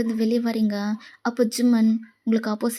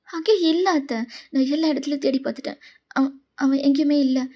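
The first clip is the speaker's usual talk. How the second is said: worried, with stumbling repeats; panicked; 3 semitones higher than usual. Acted. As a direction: fret that he is nowhere to be found. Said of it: "எதுக்கு இப்ப பதட்டமா பேசுற".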